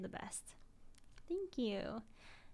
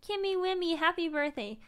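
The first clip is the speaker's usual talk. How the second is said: excited cutesy greeting; 6 semitones higher, 9 dB louder than usual. Real, not acted. Cutesy birthday greeting to herself.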